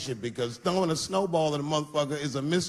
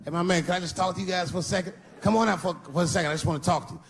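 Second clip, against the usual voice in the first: mock friendly coaxing; faster than usual. Sing-song coaxing at car window.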